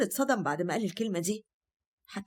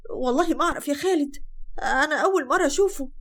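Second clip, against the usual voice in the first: crying plea; 5 semitones higher, 5 dB louder than usual. Acted. Accused wife pleading, crying.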